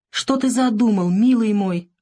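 hopeless, pleading; despairing woman on the phone; doomed repetition. A narrator's reading. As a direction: repeat it in despair. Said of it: "обречённо повторяла Лариса".

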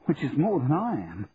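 bewildered. A narrator's reading. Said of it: "sounding bewildered".

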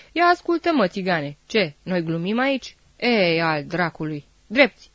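angry bark rising to a loud shouted command; furious officer. Acted. Officer furious at the soldier, shouting a loud angry command. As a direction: lose your temper and snap the order. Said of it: "Ofițerul se înfurie".

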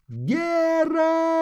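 very high shrill call of the name; piercing cry. A narrator's reading. Girl cries the witcher's name, piercing. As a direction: shriek the name high and thin. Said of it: "кричит пронзительно".

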